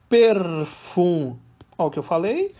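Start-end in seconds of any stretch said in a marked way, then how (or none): 0.1-1.4 "perfum-" split into loud, drawn-out syllables. Shown as a demonstration. Teacher counting a verse's poetic syllables for students, syllable by syllable. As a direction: sound out "perfum-" beat by beat, firmly. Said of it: "Vamos dar uma contada?".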